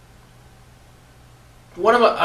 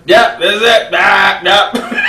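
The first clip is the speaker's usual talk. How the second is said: ecstatic; 5 semitones higher, 4 dB louder than usual. Retold or imitated. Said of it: "one of those moments of".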